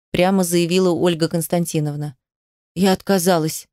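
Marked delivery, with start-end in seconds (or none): 2.8-3.7 sharp refusal. A narrator's reading. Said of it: "Вышло как-то слишком резко".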